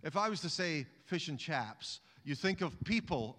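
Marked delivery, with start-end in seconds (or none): 1.0-2.0 attempted posh London accent. Shown as a demonstration. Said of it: "I don't have a posh London accent".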